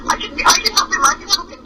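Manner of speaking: high, urgent plea without real volume; understated high-pitched retold yell. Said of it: "and she's yelling".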